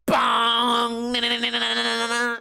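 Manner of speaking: playful noise imitation; mock bong and taunt. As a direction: clang then chant like a nuisance.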